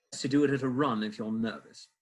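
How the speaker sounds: a light British accent on the line. Shown as a demonstration. Actor redoing his favourite line, lightly British. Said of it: "I should have done it with this".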